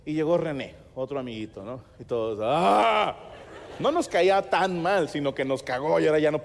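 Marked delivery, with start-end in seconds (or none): 2.4-3.2 put-on drawn-out rising "aah" from all the kids; mock chorus of kids going "aah"; group reaction "ah". The gang of kids as another friend arrives, drawn-out cry.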